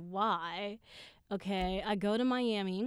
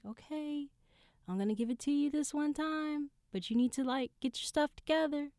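mother relenting; 7 semitones higher than usual. Retold or imitated. Voices mother's reluctant agreement.

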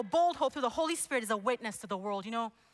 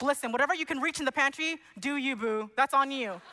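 retold yell; 2 semitones higher, 4 dB louder than usual. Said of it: "I yelled to him".

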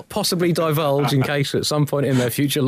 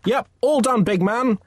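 cheerful; 10 semitones higher than usual. Acted. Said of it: "artist cheerfully replies".

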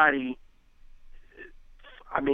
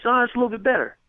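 higher, grudging half-approval; mock a friend who is only half impressed; imitating friend; 10 semitones higher, faster than usual. Retold friend's feedback on hook.

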